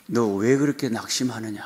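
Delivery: soft, low rebuke, asking why he despairs; hushed voice of God. Retold or imitated. God softly asking the despairing son why he loses heart. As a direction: quietly ask why he is so downcast. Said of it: "주님이 뭐라 그러냐면".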